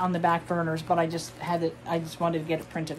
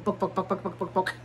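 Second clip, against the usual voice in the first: Yip Yip noises; 5 dB quieter, faster than usual. Retold or imitated. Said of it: "the Yip Yips from Sesame Street".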